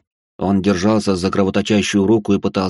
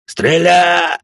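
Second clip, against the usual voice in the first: panicked shout; 9 semitones higher, 5 dB louder than usual. Acted. Hunter shouting to shoot.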